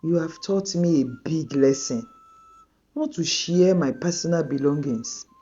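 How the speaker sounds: a hurt friend forgiving but distant; hurt and torn. Acted. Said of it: "Tolu was torn".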